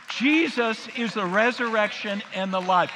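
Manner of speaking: loud, ringing declaration with the crowd; loud proclaiming. Real, not acted. Preacher leading the congregation, loud proclamation. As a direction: proclaim it so the room joins in. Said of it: "Would you say that with me?".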